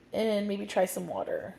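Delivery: hiccups breaking the speech; hiccupy, quiet and strained. Real, not acted. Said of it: "Sorry about the hiccups".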